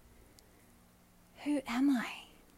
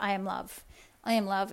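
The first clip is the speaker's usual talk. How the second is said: hollow affirmation; 2 semitones lower, 4 dB quieter than usual. Shown as a demonstration. Coach showing the wrong way to affirm, hollow and rote. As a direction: say it like a chore you don't believe. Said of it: "You can't just be like".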